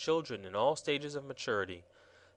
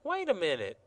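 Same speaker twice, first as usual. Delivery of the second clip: pleading; 6 semitones higher than usual. Acted. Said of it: "pleaded Betsy".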